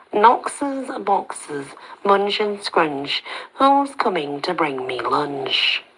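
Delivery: slow nasal sing-song chant. Acted. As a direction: stretch the rhyme out, nasal and odd. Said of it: "The nasal voice sounds again".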